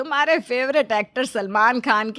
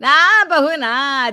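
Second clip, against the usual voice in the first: sarcastic; 4 dB louder, much slower than usual. Acted. Sarcastic mother-in-law mocks daughter-in-law.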